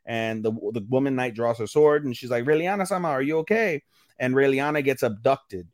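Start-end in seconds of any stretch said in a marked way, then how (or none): 2.4-3.8 alarmed concern. Retold or imitated. Knight voiced as smoke fills room.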